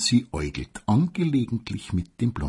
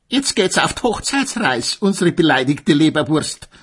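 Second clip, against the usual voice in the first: lightly mocking jeer; 8 semitones higher than usual. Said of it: "riefen sie ihr noch höhnisch nach".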